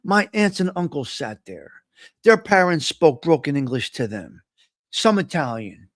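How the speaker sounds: hushed inner thought. Retold or imitated. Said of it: "and I'm saying".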